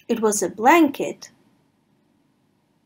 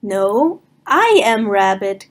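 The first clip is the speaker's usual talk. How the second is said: mild cry. Acted. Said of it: "cried the rabbit".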